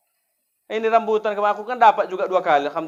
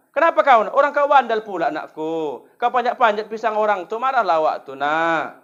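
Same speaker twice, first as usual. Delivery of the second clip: scolding mother; 3 dB louder than usual. Retold or imitated. Mother blaming her own child.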